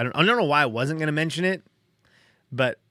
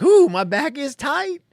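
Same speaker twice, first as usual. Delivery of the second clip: high, drawn-out wince over a sore back; pained realization; 12 semitones higher, 5 dB louder, slower than usual. Retold or imitated. Quoting himself as back pain hits, a high slow wince. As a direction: ooh it, like the ache just caught you.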